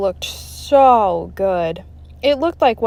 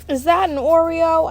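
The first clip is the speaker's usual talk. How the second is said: amazed; 9 semitones higher, 3 dB louder than usual. Acted. Kid amazed by Oreo.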